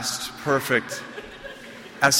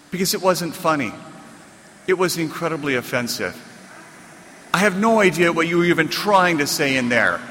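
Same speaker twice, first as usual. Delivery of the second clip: livid publisher; 3 semitones higher than usual. Retold or imitated. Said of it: "the publisher was just livid".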